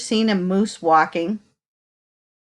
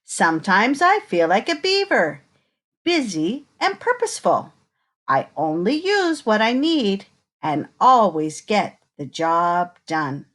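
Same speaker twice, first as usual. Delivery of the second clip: put-on reading to children. Reading picture book to children.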